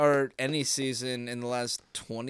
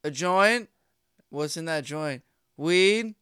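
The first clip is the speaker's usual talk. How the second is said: higher, louder playful impression of Beetlejuice; imitating Beetlejuice interview; 6 semitones higher, 6 dB louder than usual. Podcaster acting Beetlejuice denying smoking weed, higher and playful. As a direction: ham up a dopey back-and-forth interview. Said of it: "I picture Beetlejuice just being like".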